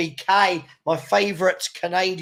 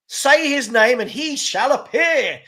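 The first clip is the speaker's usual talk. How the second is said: mock solemn; 5 semitones higher, 5 dB louder, slower than usual. Mock solemn greeting for viewer.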